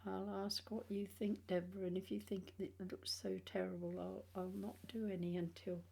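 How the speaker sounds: gappy, toothless speech; talking without front teeth; missing front teeth. Real, not acted. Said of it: "until I get my teeth next week".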